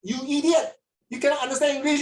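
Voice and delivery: mock an irate machine telling you off; a hammed-up rude robot at the kiosk; angry robot voice. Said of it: "ah, the robot say".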